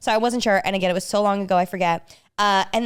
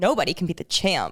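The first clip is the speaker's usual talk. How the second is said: deep, low, dropped-octave voice; 3 semitones lower than usual. Asked by the host to say the line, the speaker uses a lower-octave voice. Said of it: "It was a lower octave than I knew".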